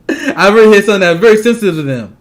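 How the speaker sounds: laughing while making the point; gloating through a laugh. Real, not acted. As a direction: chuckle as you gloat.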